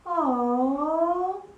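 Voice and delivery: mock disappointed oh. Shown as a demonstration. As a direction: let the oh sag in disappointment. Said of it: "now we have to sound disappointed".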